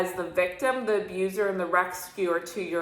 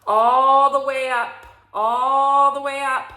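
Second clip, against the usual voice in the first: louder, rising all the way up; building emphasis; 4 semitones higher, 6 dB louder than usual. Real, not acted. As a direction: push the smoke all the way up with your voice. Smoke rising from the genie.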